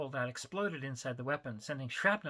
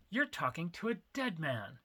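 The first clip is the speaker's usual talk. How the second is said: spat passionately; 3 semitones higher than usual. Acted. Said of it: "he spat passionately".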